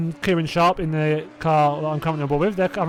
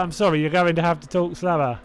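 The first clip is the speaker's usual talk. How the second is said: mock slow talking. Streamer teasing someone over a strong accent, mock slow talking. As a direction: spell it out slowly, as if to someone hard to follow.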